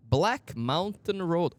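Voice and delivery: slow, drawn-out sign reading; reading the place name aloud slowly. Real, not acted.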